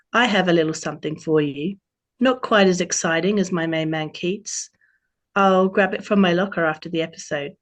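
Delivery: a playful, self-mocking Australian twang; terrible Australian accent. Autumn greets Robin on her birthday, mild Australian accent. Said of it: "terrible Australian accent I'm about to do".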